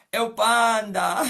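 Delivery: excited exclaim. Real, not acted. Amused reaction about the boy.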